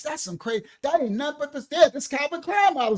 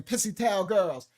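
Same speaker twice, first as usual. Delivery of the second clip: slow grandma saying; 3 semitones lower, slower than usual. Retold or imitated. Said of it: "That was her saying".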